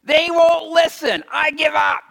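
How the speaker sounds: high, loud, exasperated prophet; retelling Jeremiah quitting; Jeremiah despairing. Retold or imitated. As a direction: cry out like a prophet who's had enough. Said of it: "Jeremiah said".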